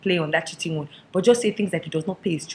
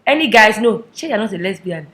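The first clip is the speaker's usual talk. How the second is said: pleading mother; 2 semitones higher, 8 dB louder than usual. Acted. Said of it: "All she will keep saying is".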